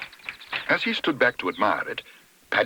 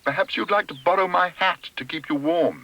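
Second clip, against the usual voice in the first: high-pitched helpful call; 7 semitones higher than usual. A narrator's reading. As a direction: call the offer over, high and polite. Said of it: "Mister Curry called Paddington".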